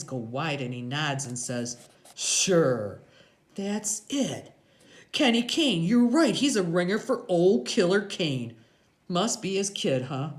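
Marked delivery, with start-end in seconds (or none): 2.1-10.3 raised, louder biker voice; Iggy, dawning recognition. A narrator's reading. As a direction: catch on, building as it clicks.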